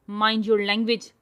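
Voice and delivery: firm loud reprimand; hard, cold warning; stern warning. Acted. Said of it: "سخت لہجے میں بولا".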